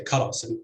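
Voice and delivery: KArasim, first syllable stressed. Shown as a demonstration. Lecturer giving a comparison word, karasim stressed on KA. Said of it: "with stress on the first syllable".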